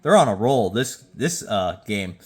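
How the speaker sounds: tipsy stuttering over words. Real, not acted. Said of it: "I'm stuttering 'cause I've been drinking".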